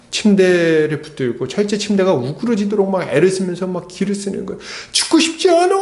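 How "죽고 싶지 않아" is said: high, loud retold deathbed cry; acted scream, pitch leaping way up; desperate scream. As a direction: cry out desperately, imitating a man clinging to life. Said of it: "막 소리를 지르면서".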